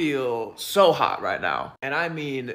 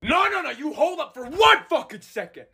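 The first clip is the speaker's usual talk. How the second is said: mock outrage; 11 semitones higher than usual.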